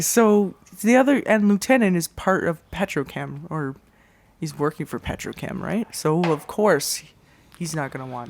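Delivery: hushed, quiet half-whisper under the breath. Telling another player secret plans in a guarded waiting room: half-whispering. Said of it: "I'm actually gonna whisper".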